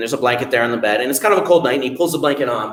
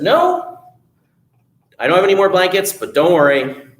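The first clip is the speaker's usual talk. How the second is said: wife's high voice; 5 semitones higher, 4 dB louder than usual. Acted. Innkeeper's wife voiced.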